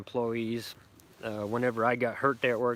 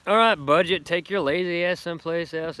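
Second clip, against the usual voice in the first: loud, higher call to shoo the dog off; 6 semitones higher, 8 dB louder than usual. Real, not acted. Owner shooing Budget the dog away, loud call. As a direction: raise the voice and send the lazy dog away.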